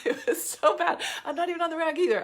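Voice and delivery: laughing. Real, not acted. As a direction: giggle through the words. Laughing at her bad mood.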